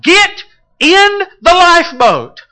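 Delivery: high, loud urgent call. Shown as a demonstration. Preacher calling the drowning into the lifeboat, loud and urgent. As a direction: shout it like a rescuer on deck. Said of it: "calling out and declaring".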